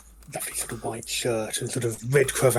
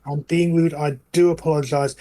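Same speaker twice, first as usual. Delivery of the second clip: goblin tailor. Acted. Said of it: "turns back to Jack and says".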